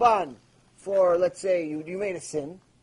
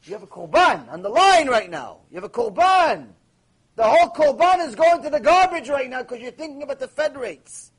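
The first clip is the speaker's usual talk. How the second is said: louder, urgent rebuke; loud warning; 4 semitones higher, 5 dB louder than usual. Real, not acted. A rabbi scolding the congregation, loud. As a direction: hammer the warning home.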